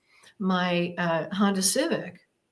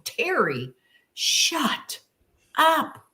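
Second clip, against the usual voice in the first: scolding herself; 7 semitones higher, much slower than usual. Retold or imitated. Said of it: "I'm disciplining myself".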